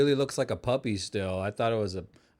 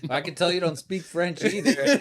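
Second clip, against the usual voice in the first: mock retort; 8 semitones higher, 5 dB louder than usual. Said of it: "They're like".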